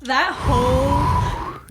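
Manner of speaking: slow, emotional, voice catching; moved almost to tears; choked up. Real, not acted. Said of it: "gives me chills".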